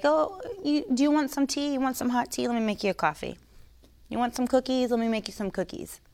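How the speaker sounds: sugary mock welcome, soft and sweet; mock the fawning host offering tea; mocking hostess offering tea. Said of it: "I say it in a mocking voice".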